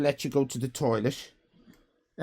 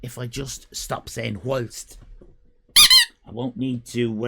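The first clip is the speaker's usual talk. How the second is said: whisper; 4 dB louder than usual. Real, not acted. Muttering to self.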